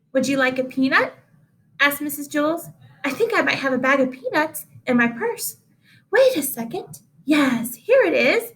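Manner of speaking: fast, busy teacher voice; bustling teacher. Acted. Teacher offers peanuts.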